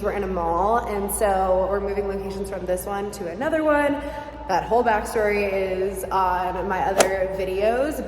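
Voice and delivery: talking in an echoing empty store; hollow room reverb on the voice; echoey room. Real, not acted. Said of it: "it's so echoey in here".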